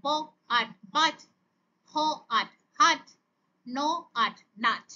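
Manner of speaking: onset, rime, whole word, as in হ... আট... হাট; phonics sound-out. Shown as a demonstration. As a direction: say ব, pause, আট, pause, then blended বাট. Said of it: "একসাথে উচ্চারণ করে". (থেমে থেমে ব, আট, তারপর একসাথে বাট)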